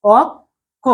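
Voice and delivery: অক্ষ broken as "awk... kho"; split syllables. Shown as a demonstration. Teacher demonstrating pronunciation, অক্ষ split into syllables. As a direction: say অক্ষ in two separated parts. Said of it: "উচ্চারণ হচ্ছে কি?".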